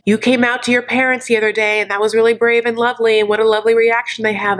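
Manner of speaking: rushed run-on praise on one held pitch; imitated gushing. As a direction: rattle it off fast like a recited speech. Imitating Stephanie's rehearsed speech.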